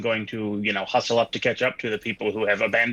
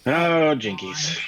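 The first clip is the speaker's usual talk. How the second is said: Scooby-Doo gasp; 3 semitones higher, much slower than usual. Pretend. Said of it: "All right, Daphne".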